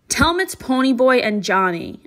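commanding. Acted. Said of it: "I commanded".

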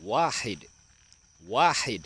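วาฮิด said high, long first syllable; model pronunciation. Shown as a demonstration. Teacher shows children Arabic one, วาฮิด pronounced high and clearly. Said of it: "จะออกเสียงว่า".

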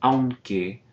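aunque with au in one glide; one syllable. Shown as a demonstration. Teacher repeats aunque, au in one syllable. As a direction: say aunque with au together. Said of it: "We're combining those two vowels".

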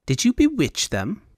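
high, airy Elvunian fop; high Elvunian accent. Acted. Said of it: "high Elvunian accent".

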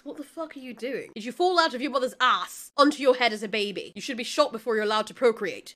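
a light hint of a small, scornful boy voice; understated little-boy voice, mostly the speaker's own; Spike's little voice. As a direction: sneer it lightly as a tiny rude kid. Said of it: "in his little voice".

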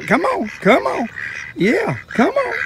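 high-pitched calling to ducks; coaxing animals. Real, not acted. Fisherman calls ducks over to him, high coaxing. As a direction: coax them over in a high voice.

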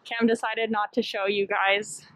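muffled behind cloth mask; speaking with covered mouth; through a face mask. Real, not acted. Seen 2: Black cloth mask covers her mouth and nose throughout.

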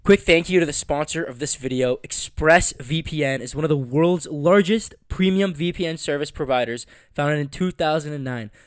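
polished, evenly paced ad read; sponsor read. Acted. Host thanking the sponsor for listeners, ad-read delivery. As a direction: read it out like a podcast sponsor spot.

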